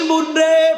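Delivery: tearful, teary calling voice.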